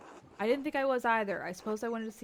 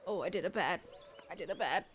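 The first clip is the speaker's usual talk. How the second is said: put-on baby-talk guilt; 4 semitones lower than usual.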